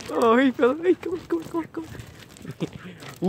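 high sing-song call to a dog; high coaxing call to the stray. Real, not acted. Calling a dog over.

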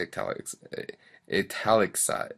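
"italicize" dragged out haltingly, syllable by syllable; stumbled pronunciation. Real, not acted. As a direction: trip over "italicize", breaking off and retrying. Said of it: "can't say this word either".

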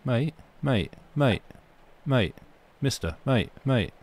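light Cockney pester. Retold or imitated. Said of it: "have a Cockney accent".

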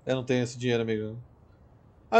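normal talking voice

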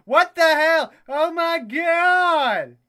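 loud, high yell of disbelief; loud, startled exclamation; shocked outcry. Real, not acted. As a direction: cry out in alarm, drawing the last words out. Sudden mishap in the game.

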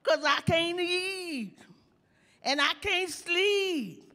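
put-on high, slow, lovesick girl's voice; mock a weepy young girl. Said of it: "She says".

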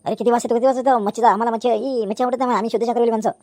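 disgusted complaint. Acted. Vegetarian elder objects to fish smell. (किळस येऊन चढ्या आवाजात तक्रार)

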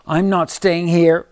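high loud wail. Acted. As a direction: wail it in despair. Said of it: "wailed the duck".

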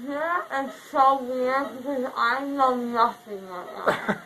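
slow, laughing, loopy; giggly. Real, not acted. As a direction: laugh it out, dazed. Loopy laughing about memory loss.

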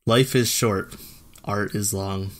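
flat, even monotone read. Shown as a demonstration. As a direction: read it deadpan, no color. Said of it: "my monotone, uh, voice".

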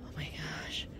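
very soft, breath-light gasp of wonder; real hushed delight; hushed awe. Real, not acted. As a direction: say it under your breath, smitten. Awed by a cute find.

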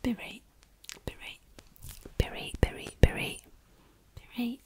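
"Berate" whispered as a Yorkshire "be reight"; Yorkshire be right. Shown as a demonstration. Yorkshireman's response, whispered as "be reight". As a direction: slur "be right" into one Yorkshire word. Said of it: "Your response as a Yorkshireman".

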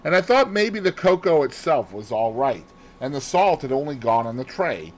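a hint of a chatty maid; flustered maid Annie explaining. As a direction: tell it as an eager servant girl.

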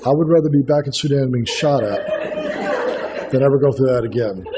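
chuckling through a slow joke; laughing while talking. Real, not acted. Preacher joking to the congregation about childcare, laughing. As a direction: let the laugh break into the words.

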